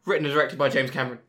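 loud, fast credits announcement; movie credits announcer. Pretend. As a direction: boom it out like closing credits. Mock film credits announcement.

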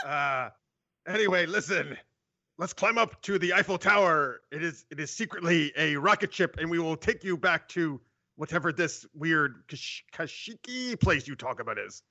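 put-on theatrical French accent; snooty French accent. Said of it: "I should have done a French accent".

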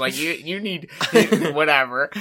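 giggling as the gushing lady; laughing through the quote. Retold or imitated. The gushing drunk lady at the party, laughing. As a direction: laugh out the lady's gushing words. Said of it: "she must have sensed that".

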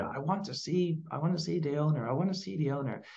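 lightly voiced angry posh customer; posh angry lady. Posh lady customer demanding the owner, mock angry. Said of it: "And she's angry".

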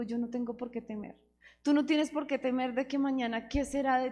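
a hushed, intimate testimony of trust; sincere, soft testimony. Real, not acted. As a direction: speak it quietly as personal truth.

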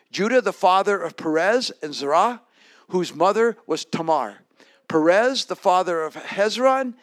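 projected, measured Bible reading; declaimed list of names; scripture reading. Acted. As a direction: read the genealogy out clearly to the congregation. Reads the scripture verses aloud.

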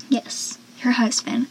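whispered aside; conspiratorial whisper. Real, not acted. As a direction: lean in and whisper.

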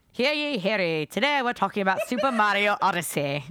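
lightly hammed-up town crier; announcer voice. Shown as a demonstration. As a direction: proclaim it like a herald. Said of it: "Let me get my announcer voice going".

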